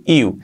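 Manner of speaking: "iu" as a vowel glide; no hard consonant before "iu"; correct soft onset. Shown as a demonstration. Teacher correcting the error, glided "iu". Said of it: "lo que es correcto es decir iu".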